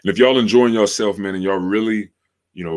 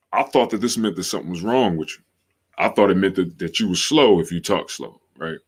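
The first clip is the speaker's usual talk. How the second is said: ordinary talk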